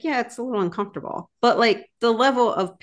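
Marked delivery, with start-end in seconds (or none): 0.0-1.3 shrugging it off. Retold or imitated. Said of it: "I was like".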